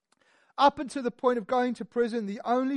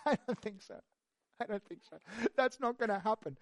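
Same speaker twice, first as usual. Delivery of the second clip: defiant Paul; 8 dB quieter than usual. Acted. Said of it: "he says".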